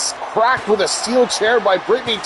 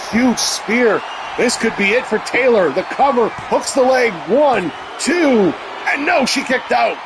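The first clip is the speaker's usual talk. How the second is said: excited shouting commentator; 6 semitones higher than usual. Acted. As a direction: call the kickout at full hype. Count and kickout called.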